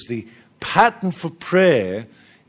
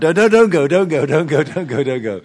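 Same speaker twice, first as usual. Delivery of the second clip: calling after fleeing people, louder; mock pleading call; 6 dB louder, faster than usual. Preacher calling after people running out, mock plea. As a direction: beg them not to leave, fading out. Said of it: "you'd run out".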